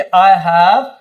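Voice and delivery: phone besides laptop drawn out slowly; slow dictation. Shown as a demonstration. Teacher modelling the besides sentence, slowly. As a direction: stretch the words out for students. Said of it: "तो क्या बोलेंगे?".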